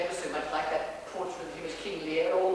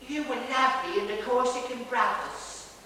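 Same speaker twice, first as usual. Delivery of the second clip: admiring woman; 4 semitones higher than usual. Acted. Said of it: "took his hand and said".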